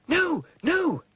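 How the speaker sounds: put-on high, squeaky little-girl pig. Girl as pig refusing the wolf, high and squeaky. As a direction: refuse brightly like a small pig. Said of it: "says Sally".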